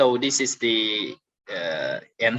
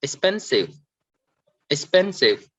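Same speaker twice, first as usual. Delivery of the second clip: "expensive" with PEN stressed, then falling; stress on middle syllable; 2 semitones higher than usual. Shown as a demonstration. Teacher repeating the word for students, middle stress on "expensive". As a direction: lean on PEN in each "expensive". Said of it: "So we stress on spend".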